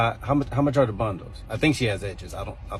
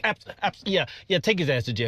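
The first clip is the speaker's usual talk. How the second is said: flustered; 5 semitones higher than usual. Real, not acted. Teacher hastily agrees with officer.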